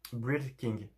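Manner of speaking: English title in a thick French accent; clumsy French-accented attempt at English; bad English accent. Real, not acted. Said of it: "Mon accent anglais est pété".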